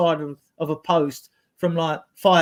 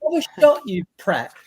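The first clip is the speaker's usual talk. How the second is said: exasperated yell; 8 semitones higher, 4 dB louder than usual. Retold or imitated. Mocking fan yelling at player.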